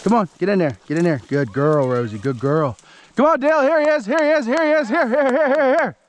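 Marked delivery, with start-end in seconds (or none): 3.2-6.0 sing-song call to bring the dogs in; high, excited call to the hunting dogs. Real, not acted. Excited calling dogs to the rabbit.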